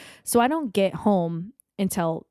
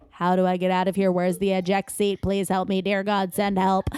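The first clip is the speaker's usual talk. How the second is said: even, monotone begging; deadpan plea for help. Acted. Trapped on a bad date, silently begging escape, deadpan. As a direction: recite the panic in a level drone. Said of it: "look on my face is like".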